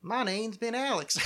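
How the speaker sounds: slow, half-hearted Southern drawl; attempted Southern accent. Podcast host testing a Southern accent on the sign-off, half-hearted. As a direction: lightly try on a Southern twang. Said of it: "I can't do it in a Southern accent now".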